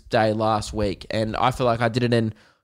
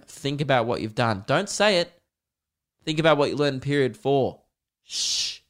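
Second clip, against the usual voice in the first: hammed-up angry parent ending on a shush; mock parent scolding; 3 semitones higher than usual. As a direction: scold the kid, then hush him. Parent scolding kid in story.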